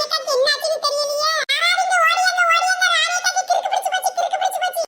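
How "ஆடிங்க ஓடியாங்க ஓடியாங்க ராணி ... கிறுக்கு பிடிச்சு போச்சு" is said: calling for help. Acted.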